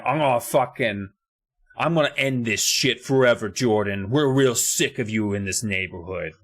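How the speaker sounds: tough New York broad; lightly voiced New York tough talk; New York accent. Kara holding a boulder over Jordan, New York accent. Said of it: "I don't know why I go so fucking New York".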